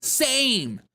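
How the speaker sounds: squealing agreement, hammed up; mocking gushing fan. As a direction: gush like a fan, all sympathy. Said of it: "everyone's like".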